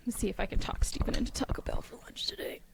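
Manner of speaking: hushed conspiratorial aside; whisper. Real, not acted. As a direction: whisper the plan to yourself. Aside about lunch plans.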